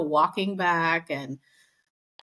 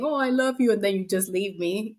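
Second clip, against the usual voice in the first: mocking Chris. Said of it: "they were mocking Chris".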